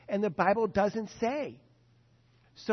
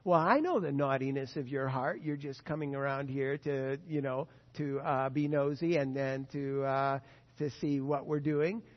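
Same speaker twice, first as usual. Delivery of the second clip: put-on lower, sneering older brother; mock scornful brother; 6 semitones lower than usual. Brothers mock David who came to help, lower and sneering. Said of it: "David's brothers told David".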